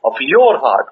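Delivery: "your" lifted out as if bracketed; emphatic, pointed "your"; stress on your. Shown as a demonstration. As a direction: hit "your" hard, let "heart" fall. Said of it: "open brackets".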